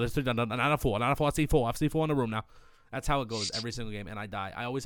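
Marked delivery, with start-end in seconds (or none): 0.0-2.4 rapid auctioneer-style callouts. Shown as a demonstration. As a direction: rattle off counts like an auctioneer. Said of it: "I sound like an auctioneer".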